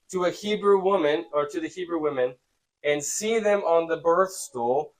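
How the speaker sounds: measured read-aloud voice; scripture reading. A narrator's reading. Teacher reads the birth stool verse, measured reading. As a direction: read it out evenly and clearly.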